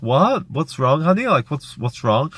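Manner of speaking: dazed mum. Retold or imitated. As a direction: imitate a half-awake mum asking in puzzlement. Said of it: "like, kind of dazed".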